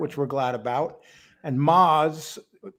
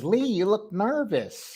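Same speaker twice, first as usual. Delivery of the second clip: higher, drawn-out mock of a co-host; Angel impression; 4 semitones higher, slower than usual. Host retells co-host's remark on his nerves, lightly mimicking. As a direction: stretch it out, lightly imitating the co-host. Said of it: "Angel comes in and says".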